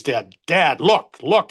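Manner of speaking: a son yelling for his dad, rising at the end; boy shouting to his dad after the final out, half-acted excitement; retold excited yell. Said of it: "and he's screaming".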